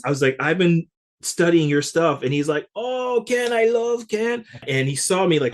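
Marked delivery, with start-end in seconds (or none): 0.4-2.2 slow, louder, gushing fan voice; awed young drummer gushing to his idol; eager fan. Retold or imitated. 2.8-4.4 much higher, beaming imitation of the drummer; light up at a friend's name; imitating drummer delighted to hear teacher's name.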